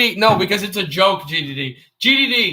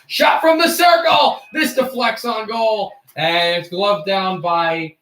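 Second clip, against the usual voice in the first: play-by-play call; slower than usual. Acted. Streamer calling a shot from the circle, hockey play-by-play. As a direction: call the shot, then ease into slower description.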